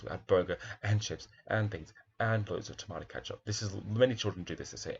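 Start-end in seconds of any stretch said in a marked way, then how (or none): 0.0-3.4 excited listing. Shown as a demonstration. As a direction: make it a list you need to listen to. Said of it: "how excited the child was".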